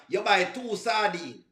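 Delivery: "sardine" said the native Jamaican way, flowing; natural Jamaican "sardine", unforced; Jamaican pronunciation. Shown as a demonstration. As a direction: say "sardine" as an easy Jamaican would. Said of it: "That's the pronunciation in Jamaica".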